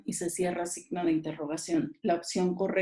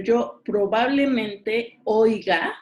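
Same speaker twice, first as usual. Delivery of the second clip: louder, slower "yo probablemente oiga"; emphatic example; 2 semitones higher, 6 dB louder, slower than usual. Shown as a demonstration. Teacher contrasting moods for students, slow emphatic example. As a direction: lean on "probablemente oiga" to show the possibility.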